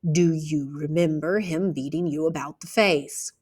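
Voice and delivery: the comfort gone from the voice, asked again firmer; patient warmth gone, now pressing; uncomfortable, harder. Acted. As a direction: repeat the question with the ease stripped out. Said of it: "voice had lost its comfortableness".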